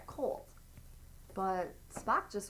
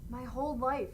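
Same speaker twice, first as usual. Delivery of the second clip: rising, overcome with feeling; emotional Spock; 3 semitones higher than usual. Acted. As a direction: feelings spilling over. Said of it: "Spock ... makes him emotional".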